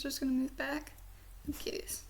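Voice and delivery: whisper. Real, not acted. Musing aside to viewers.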